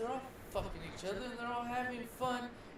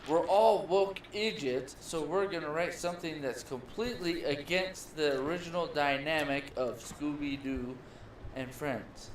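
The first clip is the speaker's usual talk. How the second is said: mocking woke writers; 5 semitones lower, 3 dB louder than usual. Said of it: "It's the".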